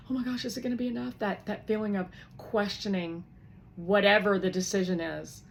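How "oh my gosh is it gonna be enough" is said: fast, higher, anxious; anxious demo. Shown as a demonstration. Teacher showing what apprehension sounds like, fast and anxious. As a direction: rush it out worried.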